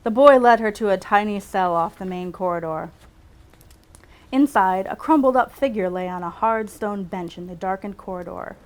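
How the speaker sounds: measured read-aloud storytelling; story narration. A narrator's reading. Writer reads her own medical story aloud, measured narration. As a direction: read it out like a novel excerpt.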